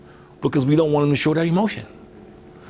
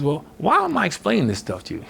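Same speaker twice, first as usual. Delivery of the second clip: higher, mildly exasperated retort; mother losing calm; 4 semitones higher than usual. Retold or imitated. Mother retold answering her little boy's questions, mildly exasperated. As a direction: imitate a mother tiring of questions. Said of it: "she started out real calm".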